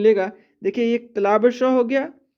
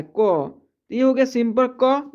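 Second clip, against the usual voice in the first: slow demo; slower than usual. Shown as a demonstration. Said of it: "क का लिखना है".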